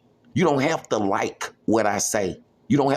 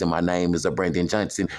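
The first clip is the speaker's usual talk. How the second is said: low tone; 5 semitones lower than usual. Shown as a demonstration. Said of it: "when I speak in different tones".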